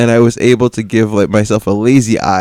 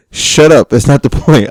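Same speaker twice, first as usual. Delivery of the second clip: retold snap; 4 semitones higher, 3 dB louder than usual. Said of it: "I literally told him to shut up".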